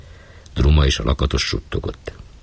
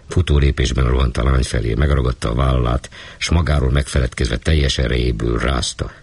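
ordinary delivery, nothing marked

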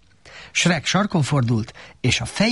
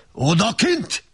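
bursting out; 8 semitones higher, slower than usual. A narrator's reading. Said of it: "robbant ki végül".

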